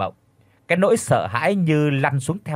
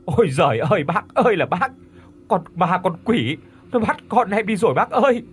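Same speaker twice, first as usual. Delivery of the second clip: rising into a high wail; wailing lament; 6 semitones higher, 3 dB louder than usual. Acted. Father wailing to neighbour that ghost took son, high wail. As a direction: cry it out to him, climbing in pitch. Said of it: "mà rú lên".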